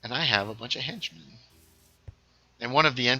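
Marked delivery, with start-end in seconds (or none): 0.0-1.2 Doctor Malice. Retold or imitated. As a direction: announce yourself as a smug villain. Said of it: "He's like".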